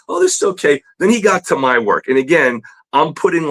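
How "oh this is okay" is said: much higher, polite teacher's praise; fake-polite, high and sweet; imitating a polite teacher. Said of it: "he was very polite".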